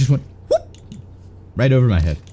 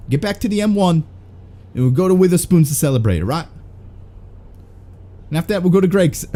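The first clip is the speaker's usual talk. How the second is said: hammed-up London lad in a British accent; 5 semitones higher than usual. Streamer goofing as a British racer in a British accent. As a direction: play a cheeky British bloke in a British accent. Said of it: "why did I go British?".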